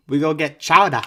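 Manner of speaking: hammed-up Boston, punched out loud; Boston accent. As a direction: put on a thick Boston accent. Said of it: "the hardest possible Boston accent".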